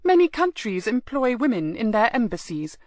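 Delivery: lightly haughty, nose in the air; a hint of a lofty aristocratic lady; mild snooty grand-lady tone; Lady Beatrice imitation. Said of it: "I did my best imitation of Lady Beatrice, with my nose in the air".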